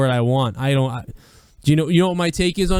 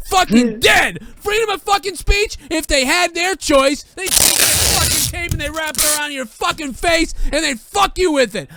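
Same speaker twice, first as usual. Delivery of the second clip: real anger shouted at the whole country; furious rant; 10 semitones higher than usual. Real, not acted. Angry rant about America.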